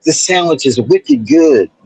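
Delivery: mock Boston accent, lively; light, playful Boston accent. Shown as a demonstration. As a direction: play a Bostonian praising food. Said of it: "they use words like wicked".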